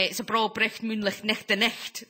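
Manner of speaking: put-on a light Scottish accent showing off the old Scots saying; Scottish phrase demo. Shown as a demonstration. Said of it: "when I say things like".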